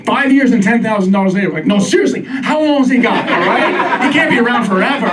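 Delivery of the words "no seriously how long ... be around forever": higher, impatient, joking; impatient owner. Retold or imitated. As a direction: ask it like you're done paying. Impatient quote about costly dog.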